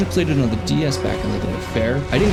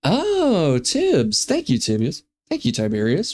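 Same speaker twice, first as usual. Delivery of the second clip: excited; 4 semitones higher, slower than usual. Real, not acted. Excited thanks to viewer.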